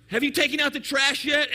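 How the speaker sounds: lightly acted nagging wife; wife's nagging. Wife to husband during the game, mildly insistent. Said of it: "Your wife tells you".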